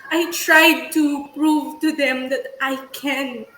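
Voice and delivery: shaky, tearful but steady; steady voice with shaky moments. Real, not acted. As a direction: push through the tears. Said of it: "So that's why I'm crying kasi".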